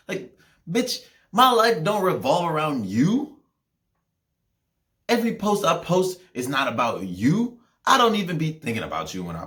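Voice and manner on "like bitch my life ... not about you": exasperated retort. Acted.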